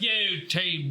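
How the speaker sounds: high-pitched mock Russian accent; terrible Russian accent. Imitating the role-player in the lobby, in a terrible Russian accent. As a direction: put on a bad, high Russian voice. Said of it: "that's a terrible Russian".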